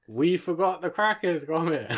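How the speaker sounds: slow, measured northern English character voice; Wallace. Shown as a demonstration. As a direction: draw it out in a mild Yorkshire accent. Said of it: "do Wallace".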